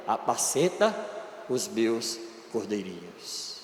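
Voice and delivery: hushed, slow and low; tender plea. Acted. Jesus not giving up on Peter, hushed and tender. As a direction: breathe it out like a gentle last plea.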